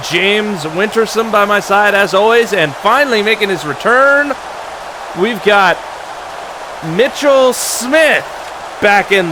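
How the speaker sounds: announcer introduction, name called big; sports announcer. Acted. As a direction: introduce the guests like a TV host.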